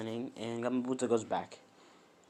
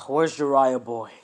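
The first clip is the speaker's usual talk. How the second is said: lightly voiced big toad; 7 dB louder than usual. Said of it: "And he's like".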